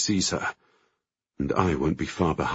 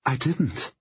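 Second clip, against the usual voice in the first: thin voice; 8 semitones higher than usual. A narrator's reading. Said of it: "her voice thin".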